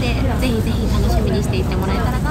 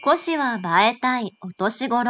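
slow, soft poem recital; haiku recitation; 3 dB quieter, slower than usual. Shown as a demonstration. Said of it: "ここで一句。".

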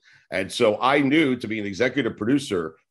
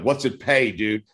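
insistent repeat; slower than usual. Retold or imitated. Repeating the pay question to the program director, insistent. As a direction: push him for the number this time. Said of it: "And I'm like".

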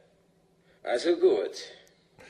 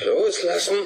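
sharp cry; 7 semitones higher, 4 dB louder than usual. Acted. Hypnosis flashback, pleading.

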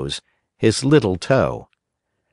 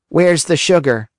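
put-on whiny puppet boy; 7 semitones higher than usual. A narrator's reading. Pinocchio refuses the fairy's bitter medicine, whining. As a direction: refuse like a stubborn child.

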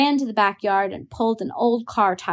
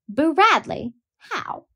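higher, startled questioning; 7 semitones higher, slower than usual. A narrator's reading. Boy asking how they'd play Boo Radley, higher and startled. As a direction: ask in disbelief. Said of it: "asked Dill".

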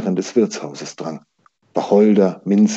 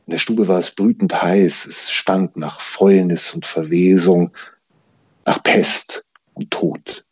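measured, dramatic novel reading; story narration. A narrator's reading. Author reading a plague scene to an audience, dramatic narration. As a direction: narrate the suspenseful scene with careful pauses.

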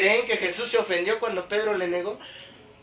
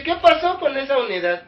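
imitating the pastor; 7 semitones higher, 5 dB louder than usual. Pastor scolding quoted in sermon.

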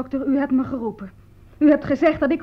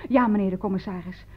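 lower, composed imitation of a lady; calm and dignified; 5 semitones lower than usual. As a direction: answer as the unruffled lady. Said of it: "mevrouw bleef kalm en waardig".

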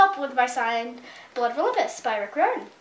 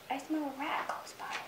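hushed, breathy whisper; mother cat warning the kittens about a rat; 15 dB quieter than usual. Acted. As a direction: whisper it like danger is near.

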